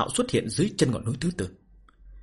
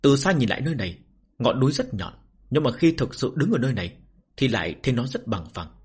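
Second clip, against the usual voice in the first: story narration. A narrator's reading. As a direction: narrate the novel with measured phrases and pauses. Reads a novel aloud to listeners. (giọng kể truyện)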